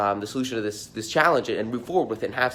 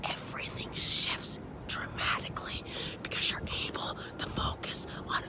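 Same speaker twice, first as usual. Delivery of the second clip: lost voice, whispering every word; 5 semitones higher, 11 dB quieter than usual. Real, not acted. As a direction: whisper through a voice that's gone. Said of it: "I have to whisper 'cause I went super freaking hard last night".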